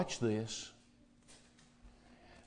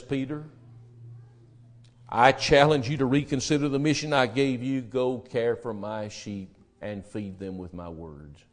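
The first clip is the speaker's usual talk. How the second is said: gentle Jesus voice; 4 semitones lower, 3 dB quieter than usual. Acted. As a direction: speak it tenderly, like a shepherd. Jesus voiced, quiet and slow.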